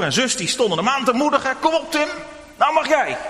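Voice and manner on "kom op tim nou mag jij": encouraging call. Acted. Family cheering Tim on.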